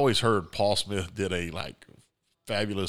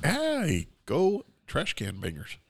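excited cheer; 6 semitones higher, much slower than usual. Acted. Mock cheer for rival team.

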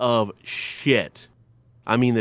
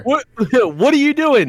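high, loud laughing imitation; mock the driver through laughter; laughing mimicry; 7 dB louder than usual. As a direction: friend mocking the driver's line, laughing.

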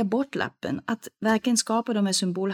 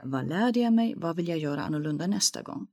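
calm forward focus; 2 semitones lower than usual. Shown as a demonstration. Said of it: "kan du säga".

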